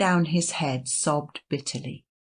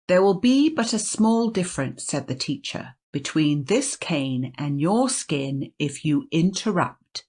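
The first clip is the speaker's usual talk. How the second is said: stern teacher threat. Acted.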